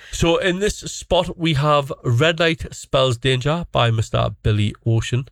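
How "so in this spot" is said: slow, smooth announcer read; radio DJ voice. Acted. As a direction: introduce the song like a DJ. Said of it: "try to do it professionally".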